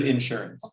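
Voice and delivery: INSURANCE said as IN-surance; front-load INSURANCE on the first syllable; stress on IN. Retold or imitated. Quoting the insurance guy, stressing the IN. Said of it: "My, my insurance guy".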